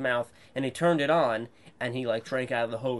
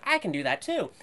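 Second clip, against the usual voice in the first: put-on understated hesitant kid; unsure claim; 6 semitones higher than usual. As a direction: say it timidly, half-convinced. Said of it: "it was more like".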